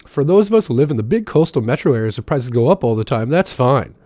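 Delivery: a put-on voice, lightly sneering; a mild mock of a smug expert; mocking re-read. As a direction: parrot her words back with scorn. Re-reads the quote mockingly.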